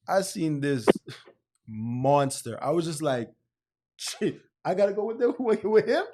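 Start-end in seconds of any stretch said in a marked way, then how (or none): 4.0-6.1 high, laughing mock panic; laughing scared quote. To a friend, retelling meeting a huge cellmate, high laughing panic. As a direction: squeal it through laughter, half scared.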